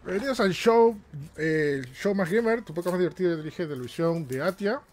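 high, energetic host intro restarted; podcast host restarting the intro, high and bright; show announcer. Acted. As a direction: welcome viewers like a TV show host.

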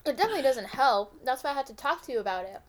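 talking while chewing; mouth full. Real, not acted. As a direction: speak through a mouthful of food. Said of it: "Sorry, I'm eating".

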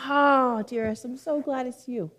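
lightly acted delighted greeting; tender welcome. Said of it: "is that what God is saying to us".

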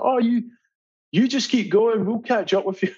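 lightly voiced easygoing skipper; skipper's reply. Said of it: "He's like".

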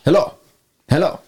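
voice on radio. Acted. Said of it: "you hear the radio go".

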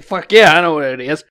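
loud, eager outburst; excited shout. Retold or imitated. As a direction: blurt it out like a fan who knows the answer. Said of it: "so I couldn't be like".

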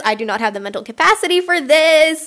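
"do not" spelled out, stressed; exasperated "I do not have"; emphatic do not. Real, not acted. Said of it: "I can't right now".

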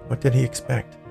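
usual speaking voice

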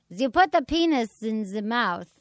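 put-on a light German accent, slow and deliberate; a hint of Dr Ruth's German accent, slowed down; Doctor Ruth accent. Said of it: "I could do her accent".

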